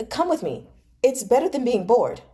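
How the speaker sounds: lightly voiced pushy friend; eager young noble. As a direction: talk him into coming along. Fei Shi coaxing Pan Lin.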